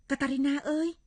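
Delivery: high call to a friend. Acted. Calling friend by name.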